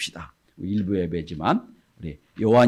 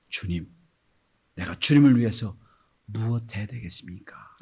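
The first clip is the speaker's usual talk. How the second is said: quiet whispered prayer; soft prayer. Acted. A believer asks the Lord, soft whisper. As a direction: pray softly and humbly. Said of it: "라고 됩니다".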